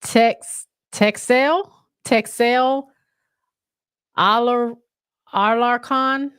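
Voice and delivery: haltingly sounding out foreign names; unsure pronunciation. Real, not acted. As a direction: feel your way through each name, questioning. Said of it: "How do you say that?".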